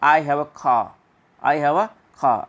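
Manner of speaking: "car" said as "kaa", no R at the end; silent R. Shown as a demonstration. Teacher models the sentence before the American version, silent R. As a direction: drop the R in "car", long open vowel. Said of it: "American कैसे बोलेंगे?".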